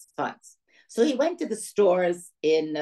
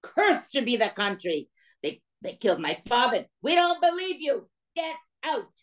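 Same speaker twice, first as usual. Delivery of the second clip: a mildly acted indignant cry, much higher on "We don't believe you"; father's outburst; 6 semitones higher than usual. Father rejects the storekeepers, mock indignant outburst. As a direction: retell the father's rejection with rising heat. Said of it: "He said".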